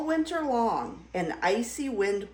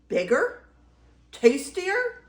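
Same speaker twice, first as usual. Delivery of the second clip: greedy questions, climbing higher and louder; crying out; 7 semitones higher, 4 dB louder than usual. Acted. Troll hearing of a tastier goat, excited cry. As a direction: cry out with mounting interest. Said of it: "he cried".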